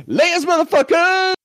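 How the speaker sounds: high yelled insult; mock triumphant yell; parting shout. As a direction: shout it as he storms off. Storming out swearing.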